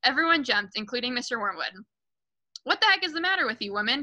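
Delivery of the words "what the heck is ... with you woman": raised-pitch, quick outburst from the father; lightly acted indignant shout, high and fast; mild narrated shout. A narrator's reading. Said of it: "he shouted".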